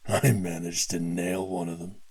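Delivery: gruff gloating thug; cocky hired gun; mercenary voice. Acted. Mercenary bragging after shooting.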